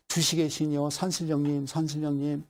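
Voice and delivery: monotone invocation to a mountain god; mock fervent prayer; praying. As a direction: call on the spirits in a level chant. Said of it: "이제 기도를 하는 거예요".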